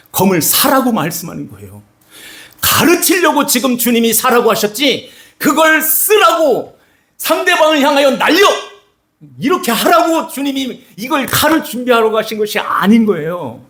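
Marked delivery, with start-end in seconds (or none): 5.4-8.5 egging someone on to swing the sword; mock fierce urging. Preacher voicing misuse of sword.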